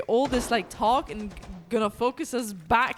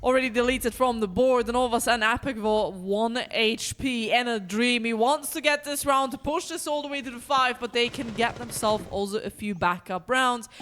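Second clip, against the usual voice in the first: esports caster. Acted. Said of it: "play by play".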